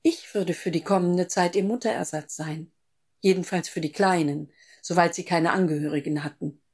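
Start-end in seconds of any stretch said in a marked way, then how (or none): none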